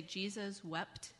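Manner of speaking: slow recitation, word by word; modelling for repetition. Shown as a demonstration. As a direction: say it slowly for children to copy. Models verse for children to repeat.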